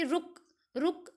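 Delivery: slow रुक, each followed by a short pause; pause after रुक. Shown as a demonstration. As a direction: let रुक stand alone. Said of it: "रुक के बाद थोड़ा सा पॉज".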